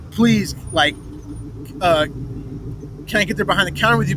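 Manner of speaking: a mild mock of tearful begging; retold pleading. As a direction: beg fast like someone terrified. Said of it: "I'm straight up crying, going".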